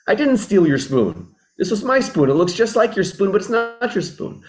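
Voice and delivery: a light put-on voice protesting innocence; defensive denial. Friend accused of theft protesting, mock-defensive. Daniel denies stealing the spoon.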